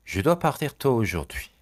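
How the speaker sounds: each syllable drawn out slowly for learners; slow model phrase. Shown as a demonstration. French teacher to students, slow model read. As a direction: say it slowly and clearly.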